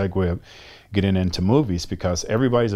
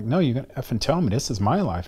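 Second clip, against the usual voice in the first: angry demand; 5 semitones higher than usual. Retold or imitated. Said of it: "I got angry and I got hostile".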